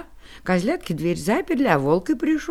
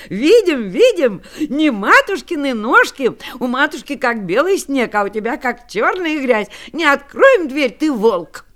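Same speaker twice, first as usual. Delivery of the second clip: put-on louder, higher triumphant kids; excited kids shouting; 3 semitones higher, 4 dB louder than usual. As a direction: call out gleefully like little goats.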